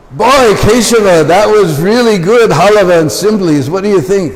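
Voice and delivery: delighted. Retold or imitated. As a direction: relish every word of the treat. Savouring the halava, eager for more.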